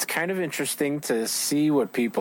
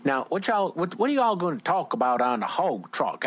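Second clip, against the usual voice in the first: put-on Southern accent; 4 semitones higher than usual. Host teasing his guest about the hog trough, mock Southern accent. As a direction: lay on a light Southern twang. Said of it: "I gotta get my southern voice going there".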